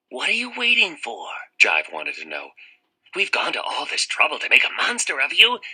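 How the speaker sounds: high, pressing coaxing; impatient tempter. Acted. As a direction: push him to act. Jive pressing Harvey.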